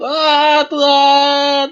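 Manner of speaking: high, loud, drawn-out cry to God; reenacted scream. Believer reenacting his overwhelmed encounter with God, screaming out. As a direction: cry out "Tuhan" at a high pitch, stretched long. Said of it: "dan saya menjadi".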